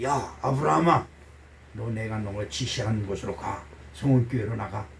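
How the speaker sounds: low, hushed divine command; God calling Abraham. Acted. God summoning Abraham to leave, low and quiet command. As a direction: speak low and soft, as God giving an order. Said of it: "아브라함에게 이르시되".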